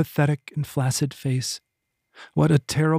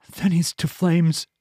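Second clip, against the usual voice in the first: a slow, higher, dragged-out mad verdict; slow mad pronouncement; 4 semitones higher than usual. Acted. Madman Eeples condemning Kyla, slow and ominous. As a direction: lay each word down like a curse.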